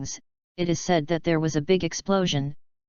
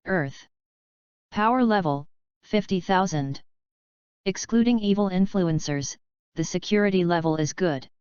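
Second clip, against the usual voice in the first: mechanical voice. Acted. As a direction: read it like a machine announcing data. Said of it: "a mechanical voice came".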